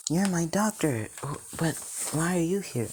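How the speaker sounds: put-on high, startled boy's voice; exclaim, then stumble into the question; astonished stammer. Boy finds his doctor there, high astonished questioning.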